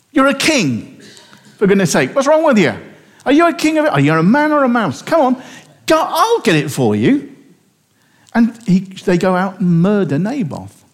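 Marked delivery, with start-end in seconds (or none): 0.1-7.3 scornful Jezebel. Retold or imitated. Jezebel scolding her sulking husband Ahab, high and mocking. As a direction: needle him like a scornful queen. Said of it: "And she goes".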